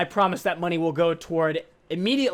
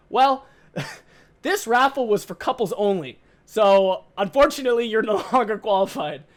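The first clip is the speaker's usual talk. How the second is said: mocking caller; 3 semitones higher, 4 dB louder than usual. Caller retracts the prize, mocking.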